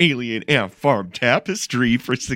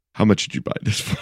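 mock wife yell; faster than usual. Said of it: "my wife to be like".

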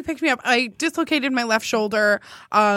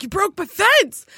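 joking accusation; 5 semitones higher than usual. Retold or imitated. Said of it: "trying to make a joke".

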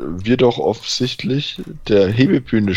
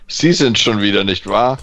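squawking voice; 4 dB louder than usual. Acted. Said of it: "Quäkt die Stimme wütend".

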